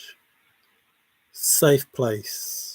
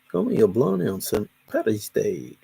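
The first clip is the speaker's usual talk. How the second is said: putting on an American accent with swooping pitch; attempted American accent; 2 semitones lower than usual. Shown as a demonstration. Reluctant performer put on the spot, trying an American accent. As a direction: have a shaky go at an American accent. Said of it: "I probably can't do an American accent".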